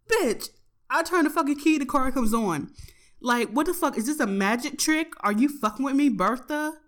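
mock scolding the car. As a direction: berate the car like a traitor friend.

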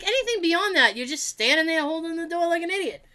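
high-pitched indignant rant; retold tirade. Retelling to co-host the rant about door holders, indignant tirade. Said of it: "I went on that same tirade".

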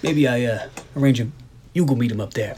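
hammed-up old gangster accent; badly faked Chicago-gangster accent. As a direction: do a dubious mobster accent for Mickey Cohen. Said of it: "I don't know what accent you're doing".

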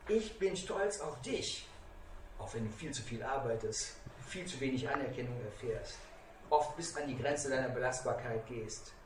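soft, low, heartfelt praise; tender pride. Retold or imitated. Son tells his overworked father he is proud, softly spoken tender pride.

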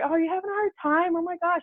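high, cooing concern; voiced sister, sympathetic. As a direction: coo like a caring sister. Sister comforting her at the door.

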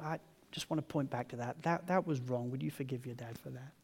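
soft, humble confession; gentle apology. Retold or imitated. Dad asking his family to forgive him, gentle apology. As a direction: drop to a quiet, sincere request.

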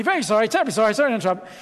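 understated, meek British apology; British politeness. Acted. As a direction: apologise over and over like a polite Brit. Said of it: "He was British, wasn't he?".

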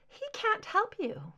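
high, airy, menacing woman's voice; a dangerous creature speaking sweetly from on high; eerie high woman's voice. A narrator's reading. Deborah cutting into Mulder's questioning, in a high eerie voice.

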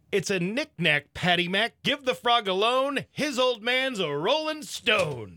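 slow start rising to a high shout; mock bank manager climbing into a yell; building punchline. Joke punchline, manager's answer.

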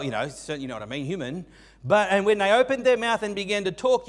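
ordinary delivery

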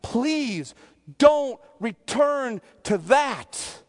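acted earnest plea to a congregation; pastoral appeal. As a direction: appeal to them, drawing the words out. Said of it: "as a pastor and appeal to them".

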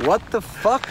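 high, loud indignant yelp; hammed-up angry friend; mock outrage. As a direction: act betrayed.

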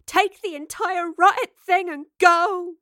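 slow, loud, high exasperated command; shout. A narrator's reading. Evie to Lorelei over the gateway's roar, shouting. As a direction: yell at them to leave, word by word. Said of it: "she shouted above the roar of the gateway".

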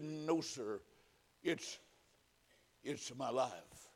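weak, halting, hushed reply; dying man's slow, faint answer; whisper. A narrator's reading. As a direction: struggle it out softly, pausing between phrases. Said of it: "In just a whisper".

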